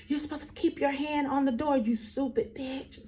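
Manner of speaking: high-pitched imitation of a bratty child; mock a kid's insult, high, drawing out the end; angry little boy. Furious child runs out, insulting her.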